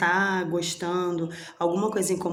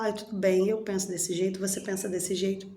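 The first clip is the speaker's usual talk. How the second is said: calm acceptance. Retold or imitated. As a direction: settle it gently, no fight. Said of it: "você chega e fala".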